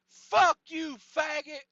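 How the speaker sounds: very loud, high-pitched insult; imitated furious shout. Sauna Santa insulting Bob with middle finger, imitated shout. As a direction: yell it like an outraged hothead.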